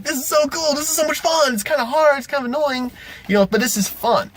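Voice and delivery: very high mock player voice; high-pitched, sustained group chatter; players' excited squeal. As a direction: imitate giddy players way up high. Voicing the delighted players' reaction.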